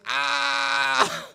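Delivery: long high "ah"; drawn-out high comic cry; mock holler. Homeless man reacting to teen, long mock holler. Homeless man's acted outburst.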